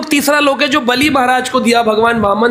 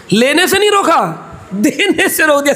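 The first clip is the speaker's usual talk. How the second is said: लेने and देने each hit hard to set them against each other; contrastive stress; 3 semitones higher than usual. Real, not acted. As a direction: punch लेने, then stretch and punch देने. Contrasts taking with giving initiation. (लेने और देने पर विरोध दिखाता ज़ोर)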